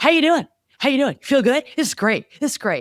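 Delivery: very high, loud, chipper and happy chatter. Recalling a training race, speaker quotes the man beside them, imitating John, chipper and happy. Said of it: "all chipper and happy".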